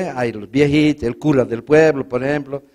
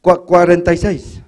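stutterer; 2 semitones higher, 5 dB louder, slower than usual. Retold or imitated. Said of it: "el tarta".

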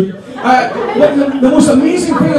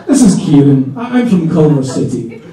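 mock polite phone message, louder; 5 semitones lower, 4 dB louder than usual. Caller praises a van driver on voicemail, mock polite and louder. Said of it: "left a message. Said".

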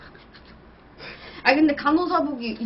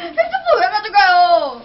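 laughing protest; 4 semitones higher, 6 dB louder, slower than usual. Real, not acted. Protesting as he takes the phone.

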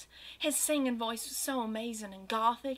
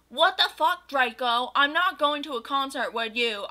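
angry shout; 3 semitones higher, 5 dB louder than usual. Acted. Goth girl yelling at Draco, hammed-up angry shout. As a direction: blast it at him in mock outrage. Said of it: "I shouted angrily".

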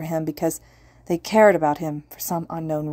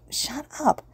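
pitched-up frantic repeat; higher, rising; 10 semitones higher, 3 dB quieter than usual. Acted. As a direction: push it up high in panic. Inner voice scolding himself.

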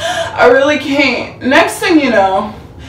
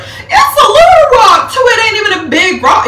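laugh-crying; 9 semitones higher, 4 dB louder than usual. Real, not acted. Laughing-crying about tiny rock.

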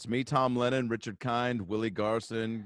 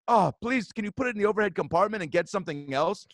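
pleading British lady; 8 semitones higher than usual. Retold or imitated. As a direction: beg like a fussy older Englishwoman. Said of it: "She goes".

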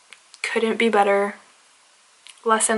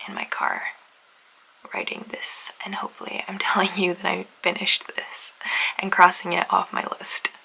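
whisper; 2 semitones lower, 7 dB quieter than usual. Real, not acted. Whispering in car, filming.

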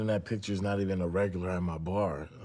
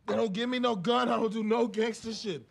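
desperate pleading. Acted. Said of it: "that was relatively convincing".

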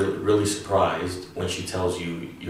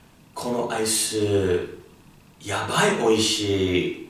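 delighted; 2 semitones higher, 3 dB louder than usual. Shown as a demonstration. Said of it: "When we describe the ice cream".

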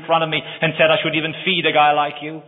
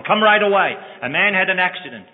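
higher and louder, hurried urgency; urgent call; 5 semitones higher, 3 dB louder than usual. Acted. Hospital calls the blind man, urgent and raised. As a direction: rush the news down the phone.

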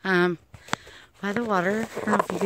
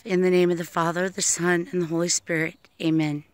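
steady, even recited prayer; protection prayer. Acted. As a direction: recite it like a blessing over the listeners. Says a little prayer.

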